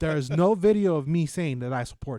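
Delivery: hammed-up protest of innocence; mock indignant denial. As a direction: insist loudly, playing a caught-out spokeswoman. Acted denial of supporting Trump.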